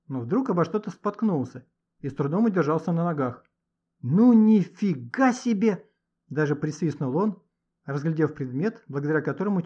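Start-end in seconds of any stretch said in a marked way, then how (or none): 4.0-5.8 громко, выше и медленно; протяни от изумления; изумление. A narrator's reading. Гошка изумлён находкой. (мальчик изумлённо присвистывает над находкой)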